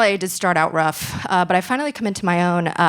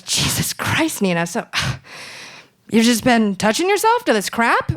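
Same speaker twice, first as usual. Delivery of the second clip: exasperated mom; 3 semitones higher than usual. Retold or imitated. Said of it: "she looks at me and she goes".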